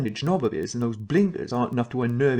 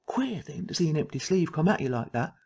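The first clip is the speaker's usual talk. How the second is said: whispering; 4 semitones higher than usual. Acted. Eerie aside in a scary tale.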